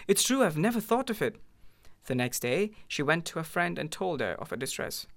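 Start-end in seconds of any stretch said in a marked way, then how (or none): 0.1-1.4 high, joyful exclamation; cry of joy. A narrator's reading. Wife cries out in joy at the idea, high and joyful. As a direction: burst out with delight. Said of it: "She uttered a cry of joy".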